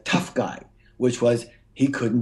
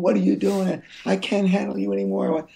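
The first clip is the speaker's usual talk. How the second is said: high, strained mock yell, no louder; retold screaming; 8 semitones higher than usual. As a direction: act out losing it at a crying baby. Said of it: "I screamed at him so loud".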